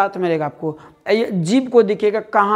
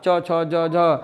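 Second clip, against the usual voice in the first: very slow recital; 2 semitones lower, much slower than usual. Shown as a demonstration. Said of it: "याद रखिए इचु यसा नाम मूर्धा".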